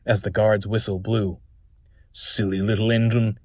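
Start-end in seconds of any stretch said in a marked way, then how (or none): 2.1-3.4 huffing. Acted. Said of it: "he huffed".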